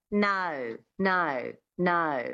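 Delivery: Australian "no" with a small schwa glide before the O. Shown as a demonstration. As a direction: coach demo of the Australian twang on "no". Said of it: "Adding that little schwa at the beginning of the O".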